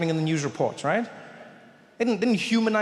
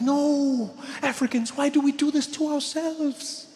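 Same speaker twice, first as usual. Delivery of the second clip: mock anguish; 7 semitones higher, much slower than usual. Trevor wailing at the TV about Africans, hammed-up anguish. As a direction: despair hammed up for the crowd.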